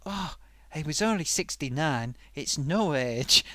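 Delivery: slow, lightly sighed mock lament; mock mournful quote. Sock mimics mourners lamenting a death at sixty-nine, slow mock lament. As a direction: drag it out like a sorry mourner. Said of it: "people die and they go".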